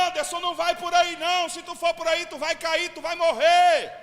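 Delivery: high-pitched call to someone far ahead. Retold or imitated. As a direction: yell the warning after him down the road. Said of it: "Eu vou gritar".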